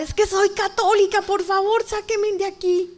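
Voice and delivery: high, insistent pleading shout; reenacted desperate cry. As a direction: protest and beg for rescue, stretching the end. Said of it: "Y grito desesperada".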